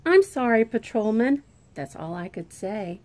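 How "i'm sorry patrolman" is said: loud, flustered sorry; startled apology. Acted. Child bumps into Patrolman McGann, flustered apology. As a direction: blurt out the apology.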